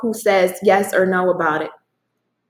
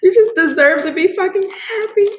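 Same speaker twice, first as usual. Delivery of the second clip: high, tearful outburst; overcome with emotion; 9 semitones higher, 3 dB louder than usual. Real, not acted. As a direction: push it out through rising tears. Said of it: "Don't get emotional".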